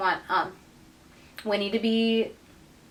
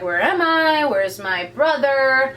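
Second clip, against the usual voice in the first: higher, dragged-out imitation of panic; mock freak-out; 4 semitones higher, 4 dB louder, slower than usual. She wakes up in his mansion, mock freak-out. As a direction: play at panicking, voice lifted. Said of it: "is, like, freaking out about it".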